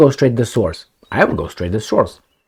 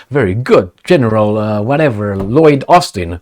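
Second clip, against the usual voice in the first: mock formal reply. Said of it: "that's the way they think they talk".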